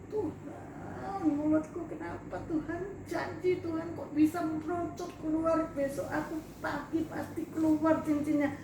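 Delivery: pleading to God, voice high and thin; tearful prayer. Retold or imitated. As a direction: beg God for help through tears. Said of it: "Aku nangis".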